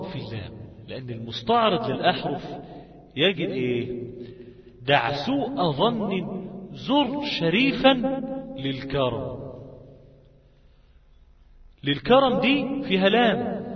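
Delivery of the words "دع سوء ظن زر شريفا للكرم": slow recital, raised then dropping on the last word; verse recitation. Shown as a demonstration. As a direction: recite it drawn out, letting the final word fall.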